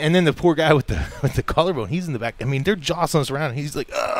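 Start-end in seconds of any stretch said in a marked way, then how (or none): 3.9-4.2 imitated groan of pain; mock agonized grunt. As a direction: groan as if jolted on a broken bone. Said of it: "every bump's killing him".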